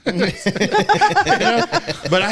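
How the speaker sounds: laughing through the words; can't keep a straight face telling it. Real, not acted. Telling a fishing story while laughing.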